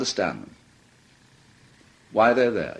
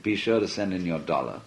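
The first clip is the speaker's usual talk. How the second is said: corny radio preacher; 6 semitones lower, 5 dB quieter than usual. Retold or imitated. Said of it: "that awful corny voice".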